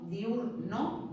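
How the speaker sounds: diurno in two beats, diur and no; diurno split in syllables. Shown as a demonstration. Teacher showing a class two syllables, diurno split after diur. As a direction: break diurno after the diphthong. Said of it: "dos sílabas".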